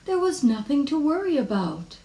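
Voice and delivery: high, lilting mother's voice; mother soothing a little worrier; reassuring mother. Acted. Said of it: "said her mother".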